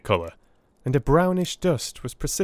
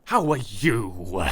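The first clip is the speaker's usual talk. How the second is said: cordial; 4 semitones lower, much slower than usual. A narrator's reading. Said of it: "he said cordially".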